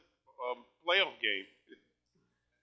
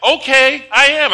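forced excitement; 6 semitones higher, 8 dB louder than usual. Retold or imitated. Grandson told to get excited.

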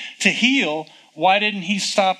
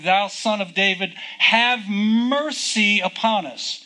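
understated imitation of crying out; 2 semitones higher than usual. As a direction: stretch it out like a restrained cry for mercy. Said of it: "all the time they're crying".

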